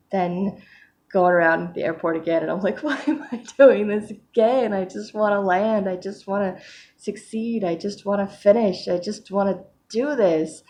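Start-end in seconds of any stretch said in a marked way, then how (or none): 2.8-10.6 mild mock exasperated plea; frustrated self-talk. Acting out frustration at circling again.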